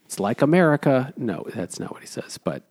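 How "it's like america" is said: mock Tom. Imitating Tom boasting to the frightened woman about his guns. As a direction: ham up the old guy boasting. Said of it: "And Tom is like".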